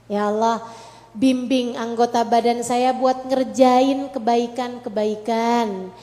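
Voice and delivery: earnest, pleading prayer to God; voiced prayer. Shown as a demonstration. Preacher demonstrating a morning prayer, earnest and pleading. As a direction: pray it out with fervent sincerity.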